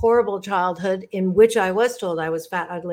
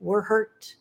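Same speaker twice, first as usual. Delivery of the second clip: loving reassurance. Real, not acted. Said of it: "lovingly say to you".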